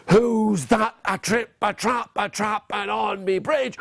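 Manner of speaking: lightly voiced troll challenge; hairy scary troll. Troll challenging baby goat, lightly voiced menace. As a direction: stretch out the opening like a storybook troll. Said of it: "up jumped the hairy, scary troll".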